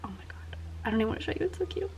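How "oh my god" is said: breathless hushed oh my God; awed whisper. Real, not acted. Unmolding cute wax hearts, an awed whisper. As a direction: whisper it in awe at something cute.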